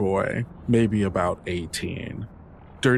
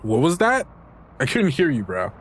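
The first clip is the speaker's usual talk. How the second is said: high mocking teen voice; taunting teen; 6 semitones higher, 3 dB louder than usual. Dylan taunts Delroy after the forced sorry, high and mocking. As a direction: bait him, sneering up high.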